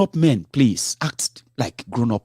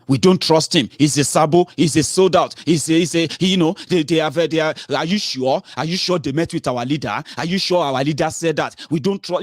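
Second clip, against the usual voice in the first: mocking the doubters; 6 semitones higher than usual. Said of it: "these charlatans, they took over".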